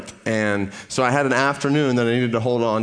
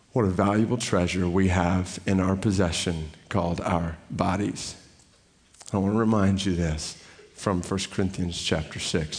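normal talking voice

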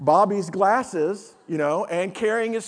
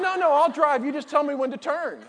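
higher, laughing "No, no, I'll drive"; laughing insistence; 6 semitones higher than usual. Retold or imitated.

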